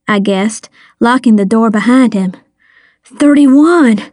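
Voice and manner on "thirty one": mild wail, higher and louder; a hammed-up cry of despair; a touch of a teen wailing. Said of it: "he wailed".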